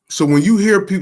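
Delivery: words broken by a burp. Real, not acted. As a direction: speak through a small burp. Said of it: "I just burped".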